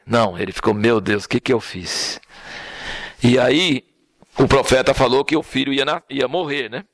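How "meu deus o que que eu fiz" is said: remorseful. Retold or imitated. David's humble reaction.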